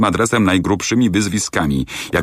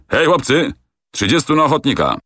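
rally the soldiers with a ringing call; 10 semitones higher than usual. A narrator's reading. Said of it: "rzucił".

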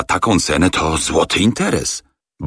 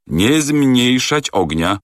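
slow, higher, steady command; calm order; 8 semitones higher, much slower than usual. A narrator's reading. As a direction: lay it down slowly and firmly. Fogg orders engineer.

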